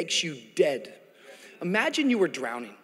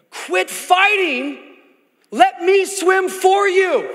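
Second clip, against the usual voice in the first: higher, slow call to a panicking swimmer; instructor calling out; 13 semitones higher, 7 dB louder, much slower than usual. Retold or imitated. Instructor calling out slowly to the panicking drowning man. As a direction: quit fighting, calmly but firmly. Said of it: "I could hear the instructor say".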